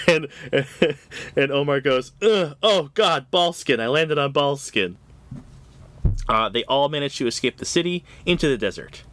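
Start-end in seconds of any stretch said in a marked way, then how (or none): 2.2-5.0 mock-grossed-out exclamation; acted disgust. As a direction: groan it out in mock horror. Acting Omar's disgusted reaction.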